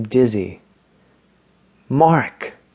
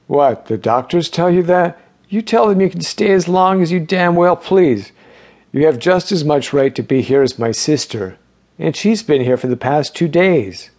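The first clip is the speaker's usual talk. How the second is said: lightly voiced old man, raised and insistent; indignant old man; 5 semitones higher than usual. Donald urges Mark he may stay, mildly indignant. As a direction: push back at the doctors' rules, a touch heated.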